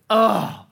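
short groan of dismay; mock groan. Preacher voicing women under cultural pressure, a mock groan. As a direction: let out a weighed-down "ugh".

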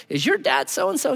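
put-on British accent. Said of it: "someone with a British accent".

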